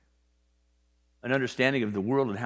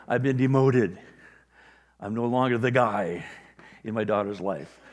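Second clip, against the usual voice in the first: mock dismay; 5 dB louder than usual. Father after daughter's wedding.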